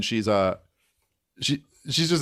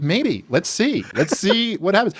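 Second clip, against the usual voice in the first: higher and very slow, caught up in the make-believe; playful childlike echo; 8 semitones higher, slower than usual. Retold or imitated. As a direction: echo the little girl's wonder, stretched out. Dad echoing daughter's magic, playful.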